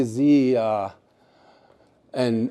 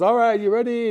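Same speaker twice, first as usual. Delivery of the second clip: female eagle calling out; 9 semitones higher than usual. Acted. She calls out to the eagle.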